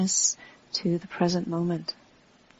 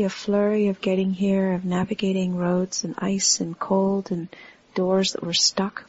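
unhurried meditation guidance with long pauses; guided meditation. Real, not acted. Teacher guiding a standing group to relax into the earth, unhurried meditation voice. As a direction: talk them gently through the body, pausing between phrases.

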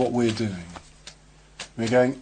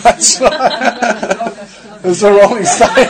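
laughing; 9 semitones higher, 10 dB louder than usual. Real, not acted. Laughing at a joke about a band.

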